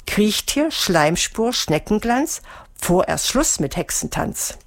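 ceremonial spell, word by word; measured incantation with rising list tune; solemn. A narrator's reading. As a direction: recite it like a magic formula. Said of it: "sagte feierlich".

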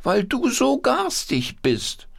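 very high, scolding puppet squeal; indignant puppet voice. Acted. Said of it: "Wolfram mit der rechten Hand".

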